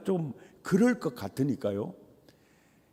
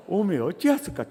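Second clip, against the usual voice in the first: Jeolla dialect; 2 semitones higher, faster than usual. Shown as a demonstration. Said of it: "따라서 합시다".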